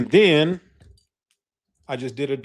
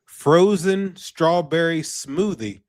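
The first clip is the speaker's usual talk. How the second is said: slow savoring; much slower than usual. Real, not acted. Repeating new strain name slowly.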